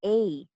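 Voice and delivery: A said as in ache; long A sound. Shown as a demonstration. Teacher introducing a vowel symbol, clear A as in able. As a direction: sound out A like the start of April. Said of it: "this symbol represents the sound".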